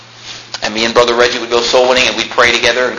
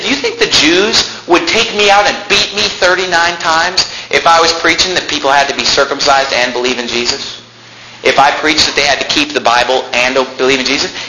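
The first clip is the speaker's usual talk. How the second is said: exasperated apostle; 4 semitones higher than usual. Acted. Preacher acts out exasperated apostle.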